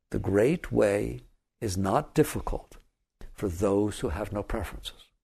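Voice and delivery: slow, solemn recitation; reciting a scripture. Shown as a demonstration. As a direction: read it like a sacred text. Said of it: "Third Zen patriarch".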